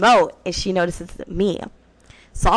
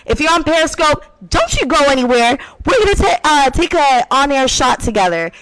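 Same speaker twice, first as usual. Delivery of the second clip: radio host; 3 semitones higher than usual. Acted. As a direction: pump up the listeners for the break. Radio host break announcement.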